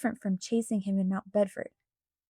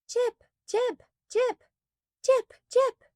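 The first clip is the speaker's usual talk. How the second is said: much higher, repeated frantic yelps; yelped; 13 semitones higher, slower than usual. A narrator's reading. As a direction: yelp the name over and over, rising in panic. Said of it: "Agatha yelped".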